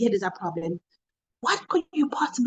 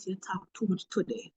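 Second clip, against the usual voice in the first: retold whisper; 4 semitones lower, 9 dB quieter than usual. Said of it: "come and whisper in your ear".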